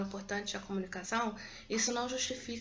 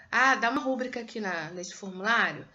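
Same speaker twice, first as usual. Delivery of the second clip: loud, casual "dá uma rúbrica" with "rúbrica" stressed on RÚ; mock office request; 5 dB louder than usual. Shown as a demonstration. Teacher acting someone asking, stressing "rúbrica" wrongly. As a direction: play a clerk asking for a signature. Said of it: "Não, é rubrica".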